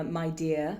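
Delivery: posh British with a softened R; posh British accent. Shown as a demonstration. Teacher giving practice words for the accent, posh British accent. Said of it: "more posh accent".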